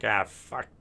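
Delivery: put-on slow, fed-up Jersey accent building to a loud snap. Done with the topic, ranting to viewers in Jersey accent. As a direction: grumble it like a worn-out Jersey guy, then blow up. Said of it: "When I start sounding Jersey".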